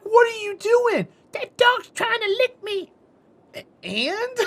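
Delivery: high, put-on squeak; squeaky quoted argument. Mom complaining the dog wants to lick her, in a high put-on squeak. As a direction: voice both sides in a high squeak.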